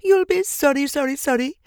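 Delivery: goose calling. A narrator's reading. Goose calling after Wilbur, high and fading. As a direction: call out a fading goose warning. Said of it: "called the goose".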